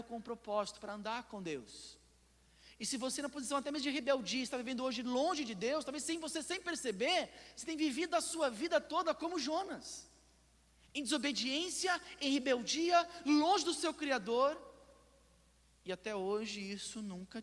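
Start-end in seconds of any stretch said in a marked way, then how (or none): 2.8-14.6 high, insistent pulpit exhortation; forceful preaching. Real, not acted. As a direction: confront the listener in a raised preacher's voice.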